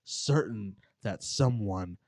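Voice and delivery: slow, hushed ghost story telling; spooky story narration. Acted. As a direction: draw out the creepy details slowly. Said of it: "serious, spooky voice".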